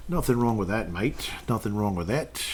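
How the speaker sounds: light put-on Aussie accent; mock Aussie accent. Host chatting about rugby league, in a playful Aussie accent. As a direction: have a half-hearted go at sounding Australian. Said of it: "stop with the Aussie accent".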